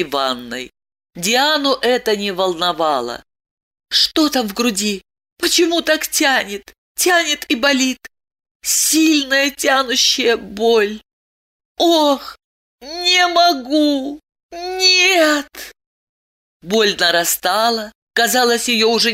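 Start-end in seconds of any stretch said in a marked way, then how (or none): 3.9-11.0 pained inner voice. Acted. Heroine feels chest pain. 11.8-15.5 high, strained cries of pain; a high, breaking cry of agony. Acted.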